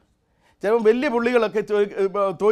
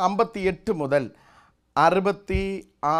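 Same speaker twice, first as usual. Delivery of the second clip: ordinary talk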